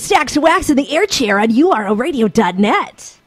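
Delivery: upbeat radio DJ intro. Shown as a demonstration. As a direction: spin it like a DJ plug. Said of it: "a memorized little bit of dialogue".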